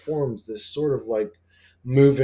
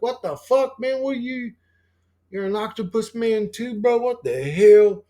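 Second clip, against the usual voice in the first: incredulous outburst; 8 semitones higher than usual. Retold or imitated. Retold disbelief at friend's form.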